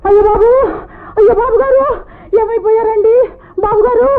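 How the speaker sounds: keen over him as if he died; wailing lament. Acted. Servant wails over fallen master. (ఏడుస్తూ విలపించడం)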